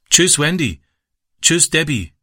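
calling out. A narrator's reading. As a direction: call goodbye into the kitchen. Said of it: "rief er".

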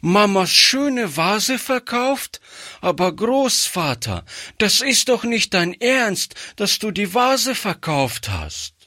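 put-on upset child. Girl begs her grandfather over the sold vase, high upset child voice. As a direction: plead like a distressed child.

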